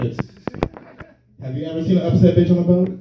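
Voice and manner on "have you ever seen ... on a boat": fast, quick recited book title; read like a title. Shown as a demonstration. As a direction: rattle it off like a rhyme title. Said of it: "title of my new Pimp Doctor Seuss book".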